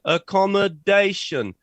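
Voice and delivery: "accommodation" slowly, with DA strongest; stress on fourth syllable. Shown as a demonstration. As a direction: stretch the DA in "accommodation" for learners. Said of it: "The stress is on the fourth syllable".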